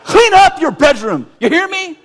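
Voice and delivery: high, loud mock-parent yell; acted yelling. Raging parent yelling at child about bedroom, loud high shout. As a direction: bark the order at the kid. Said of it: "And I yell".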